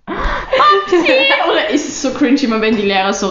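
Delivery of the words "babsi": high, sing-song call of the nickname; calling a teacher's nickname in jest; playful call. Pretend. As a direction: call it out across the room.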